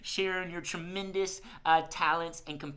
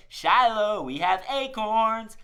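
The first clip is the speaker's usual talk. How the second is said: calling out; 5 semitones higher, 8 dB louder, slower than usual. Shown as a demonstration. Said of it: "Hold out your hand ... and say".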